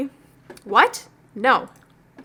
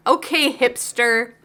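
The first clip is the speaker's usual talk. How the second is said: teasing; slower than usual. Acted. Daughter teasing dad.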